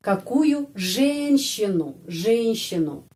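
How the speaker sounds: женщину slow, е said as E; slow demonstration. Shown as a demonstration. Teacher reads Russian phrase slowly to students. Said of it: "Di sini huruf Y dapat penekanan".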